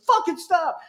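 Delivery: high, exasperated mock plea; fed-up plea. Friend begging him to stop the CB teasing, exasperated. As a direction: imitate a friend at his limit. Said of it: "he was like".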